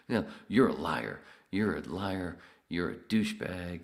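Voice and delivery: loud mock angry insults; retold yelling. Caller on air yelling insults at the comedian, loud and angry. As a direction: yell the insults like the furious caller.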